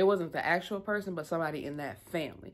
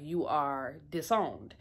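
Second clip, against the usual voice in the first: slow, measured retold verdict; solemn pronouncement; slower than usual. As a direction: pronounce it word by word, with finality. Retelling a father's solemn pronouncement.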